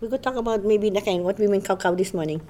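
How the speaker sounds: easy Hawaiian pidgin chat. Shown as a demonstration. Friends demonstrating pidgin for the interviewer, Hawaiian pidgin accent. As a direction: speak in local Hawaiian pidgin. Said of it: "have a conversation in pidgin".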